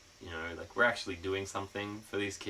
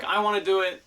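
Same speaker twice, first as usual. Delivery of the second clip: put-on higher, louder eager kid's plea; a boy at shower duty asking to hold the hose; 10 semitones higher, 8 dB louder than usual. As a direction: beg for the hose like an excited boy.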